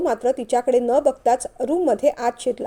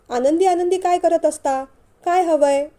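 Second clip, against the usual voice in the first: mildly mock-cross, higher pitch; retold anger; 4 semitones higher, 3 dB louder than usual. Mother-in-law retells the wife's outburst to father, mildly angry. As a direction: quote her irritation, drawing out the opening. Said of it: "असं रागाने म्हणाली".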